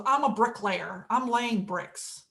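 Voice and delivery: low, mildly grumpy reply. Acted. First bricklayer answers the architect's question, mildly grumpy. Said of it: "the bricklayer replied rather grumpily".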